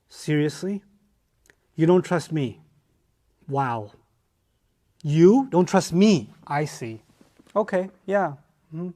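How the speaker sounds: mock hurt guilt-tripping; wounded guilt trip. Shown as a demonstration. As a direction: play the betrayed friend. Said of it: "let me show you how this works".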